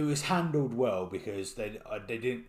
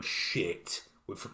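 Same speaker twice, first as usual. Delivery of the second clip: high, flustered voice scrambling for an excuse; mock panic, loud outburst then high stammering; panicked Marvel; 7 semitones higher, 6 dB louder than usual. Podcaster mimicking Marvel realising they forgot the accent, panicked. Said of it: "Marvel had o-, obviously gone".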